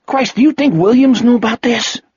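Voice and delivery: shocked disbelief from a cop. A narrator's reading. Horrified cop voiced.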